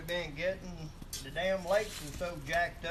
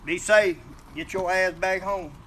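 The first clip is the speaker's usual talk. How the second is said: loud send-off; 6 dB louder than usual. Real, not acted. Sending off a working viewer.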